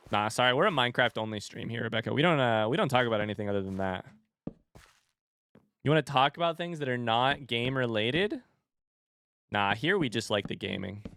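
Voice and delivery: sarcastic. Pretend. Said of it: "so sarcastic here".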